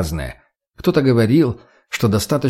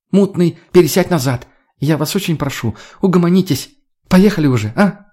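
exasperated pleading; 6 semitones higher than usual. Acted. Pleading to stop the quarrel.

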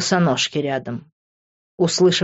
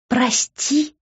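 higher, incredulous question; disgusted echo; 7 semitones higher than usual. A narrator's reading. Liv repeats his apology back in disgust. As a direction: spit the word back with disgust. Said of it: "с отвращением переспросила она".

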